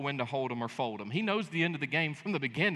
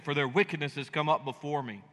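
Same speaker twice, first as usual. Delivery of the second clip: scripture reading; 3 semitones lower than usual. Acted.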